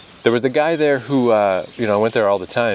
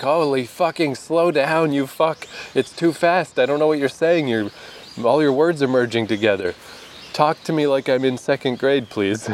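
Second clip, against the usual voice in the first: higher, pleading frustration, slowing for the first words; exasperated plea; 5 semitones higher than usual. Retold or imitated. Can't follow fast French reply.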